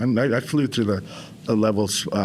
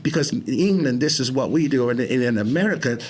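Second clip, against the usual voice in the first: higher, put-on British self-coaching; British accent; 3 semitones higher than usual. Shown as a demonstration. Man coaching himself through his therapy, British accent. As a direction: talk to yourself as a British bloke. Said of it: "when I'm playing a different role".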